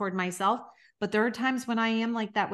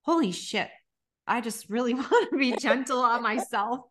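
relieved realization; 2 semitones higher than usual. Retold or imitated. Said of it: "walk away from this episode saying".

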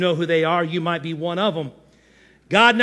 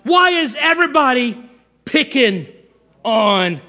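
high, woeful mock lament to God; mock whiner; 5 semitones higher, 4 dB louder than usual. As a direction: wail the complaint, breaking up the last words. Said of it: "King David was a whiner".

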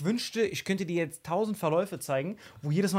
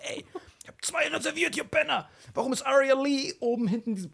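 high, angry shout at the staff; furious retold yell; 8 semitones higher than usual. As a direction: blast them, much higher, raging.

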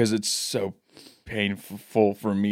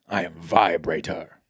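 evil villain voice; 5 semitones lower, slower than usual. Pretend. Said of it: "Sounds like an evil villain".

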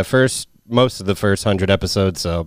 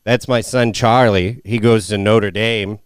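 1 Martin Sheen; 2 semitones lower, slower than usual. Retold or imitated. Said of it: "Martin Sheen's is insane".

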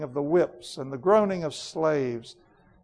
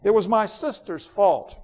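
cold, imperious queen, a touch louder; proud queen Jadis; 5 semitones higher, 5 dB louder than usual. Acted. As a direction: speak like a queen who ended a world. Reads Jadis's lines.

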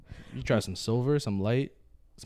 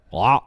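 retching noise; 6 dB louder than usual. Shown as a demonstration. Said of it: "shoot out a".

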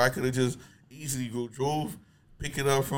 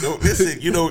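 laughing; 5 semitones higher, 10 dB louder than usual. Real, not acted. Laughing while answering.

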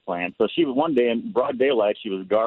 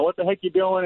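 Lithuanian grandma; 9 semitones higher than usual. Retold or imitated. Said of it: "partial English, partial Lithuanian".

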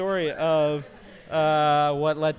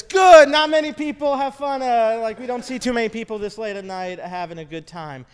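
a hint of a cheery old man, louder at the start; friendly old man voice; 4 semitones higher, 7 dB louder than usual. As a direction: lightly play the happy old man.

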